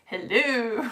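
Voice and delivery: "Hello" with a long oo ending; drawn-out silly hello. Retold or imitated. Reading out Oscar's greeting, "Hello" as a silly helloo. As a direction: stretch the end of "Hello" into "helloo". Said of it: "saying it like that".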